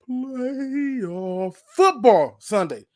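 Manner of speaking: very slow, drawn-out high hype. Shown as a demonstration. Host saying it slow for disbelieving fans, slow and hyped. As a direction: stretch each word out, then punch football. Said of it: "I'm gonna say it slow".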